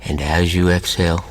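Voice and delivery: measured hypnotist voice with long pauses; hypnotic induction. Real, not acted.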